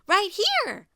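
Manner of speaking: laughing Pig. Acted. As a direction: crow with delight. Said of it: "laughed Pig".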